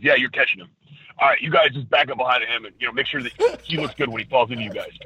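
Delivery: lightly voiced Triple H giving casual orders; a hint of an offhand boss chewing gum; Triple H impression. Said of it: "that was me doing a Triple H impression".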